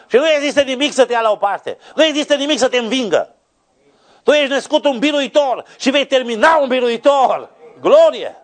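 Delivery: high, ringing pulpit cry; full-force preaching. Real, not acted. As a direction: drive each promise home at the top of the voice. (predică strigată, cu toată forța)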